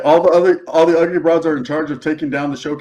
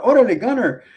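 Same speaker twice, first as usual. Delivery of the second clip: host's higher-pitched greeting, lightly voiced; imagined game show host; 6 semitones higher than usual. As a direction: greet the contestant up high, playfully. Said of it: "He'll be like".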